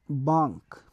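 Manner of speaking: banque said baŋk, low and falling; French banque. Shown as a demonstration. Teacher spelling then repeating for class, French banque. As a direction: model banque slowly in French. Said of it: "in French we say banque".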